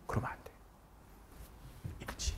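whispered warning; teacher whispers to students. Real, not acted. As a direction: hush it like a secret rule.

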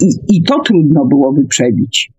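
normal talking voice

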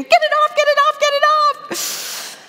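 very high, loud mock scream of a terrified girl. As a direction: shriek like a scared little girl with a leech. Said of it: "she came to me screaming".

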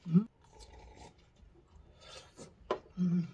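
humming while chewing; muffled by food in mouth; mouth full of fruit. Real, not acted. Seen 1: Left speaker forks white fruit into mouth, then chews while humming.

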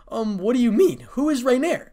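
high, loud puzzled questions; curious. A narrator's reading. Irina asking friends about an unknown name, curious. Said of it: "asked Irina curiously".

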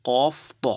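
"কফ" and "ত" said full and heavy, with rounded mouth; thick, heavy letters. Shown as a demonstration. Teacher shows learners the thick sound, "কফ ত" heavy and rounded. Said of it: "আওয়াজটা একটু মোটা হয়".

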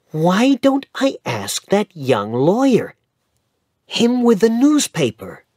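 put-on high, loud, eager boy's voice; eager boy Dick. A narrator's reading. Dick suggests asking the young lawyer, high eager voice. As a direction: pitch the idea keenly.

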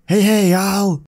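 Hey, hey, y'all in a hammed-up Texas drawl; clumsy cowboy accent trying to impress; put-on cowboy accent. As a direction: ham up the cowboy greeting. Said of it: "how's this, Buck?".

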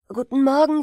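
lauter freudiger Gruß; "Guten Morgen" laut rufen; gerufen. Acted. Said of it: "riefen die drei Brüder". (Brüder rufen dem Vater zu, laut)

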